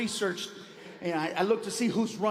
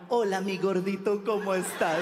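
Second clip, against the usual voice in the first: sweet taco lady. Retold or imitated. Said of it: "They come to the window".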